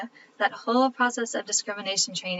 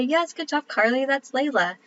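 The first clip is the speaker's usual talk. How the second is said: higher, sing-song praise for a little one; praising toddler; 5 semitones higher than usual. Retold or imitated. Mom praising her toddler Carly for the right name, bright sing-song. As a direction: cheer her on like a proud mom.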